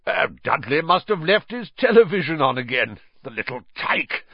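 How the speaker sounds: lightly voiced gruff uncle calling through the house; a hint of Uncle Vernon calling.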